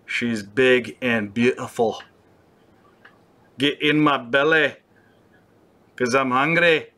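a loose, hammed-up Scottish accent; half-hearted Scottish accent, playing a greedy character; mock Scottish accent. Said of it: "I don't even know what accent".

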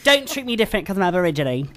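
put-on Australian accent; a closer go at sounding Australian. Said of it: "That was closer".

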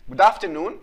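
"afternoon" with the R left silent. Shown as a demonstration. Teacher asks pupils to notice, R not pronounced. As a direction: leave out the R in "afternoon". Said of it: "إذا لاحظت مانيش ننطق في الآر".

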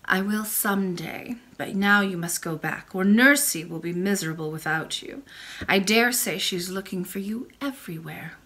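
put-on a gentle old grandmother speaking; old lady voice. Old lady sends the princess back.

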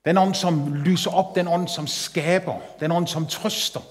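hushed worship prayer under music. Acted. Opening prayer to the Holy Spirit.

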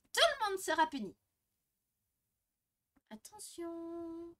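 high, hesitant teacher voice; stammering, halting teacher; nervous teacher. Acted. Teacher character addresses class.

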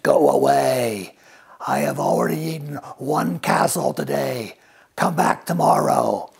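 a hint of a grouchy dragon; grumpy dragon. Dragon at the cave door shooing Elizabeth off, gruff.

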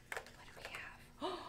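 near-whisper, full of suspense; hushed curiosity. Real, not acted. Teacher peeking into an egg for children, hushed curiosity. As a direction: whisper it as you peek inside.

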